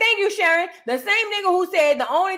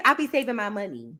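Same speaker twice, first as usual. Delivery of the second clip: a hint of Fani, lower and dismissive; imitating Fani; 5 semitones lower, 4 dB quieter than usual. Mimicking how Fani sounded on the stand, lower. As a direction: drop the voice and brush it off like her. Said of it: "That's how she sounded on there".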